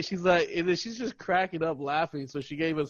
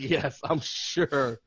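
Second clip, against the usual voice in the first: retold insistence; much slower than usual. Acts out server's emphatic confirmation.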